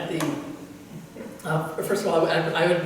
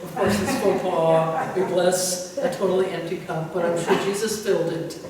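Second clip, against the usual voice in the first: amused laughing; 2 semitones higher, 6 dB louder than usual. Real, not acted. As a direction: tell it while cracking up. Amused retelling of funny mishap.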